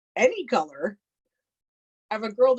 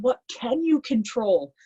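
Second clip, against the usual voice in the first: slow, higher stern question; retold coach yelling; 5 semitones higher, slower than usual. Coach gripping her shoulders, slow, raised demand. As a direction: press the question slowly like a coach. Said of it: "he's yelling at me in my face".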